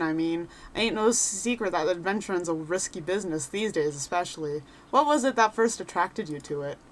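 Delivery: a lightly voiced cheerful rogue adventurer; chatty wanderer sizing up a newcomer; folksy adventurer. Reads NPC adventurer lines.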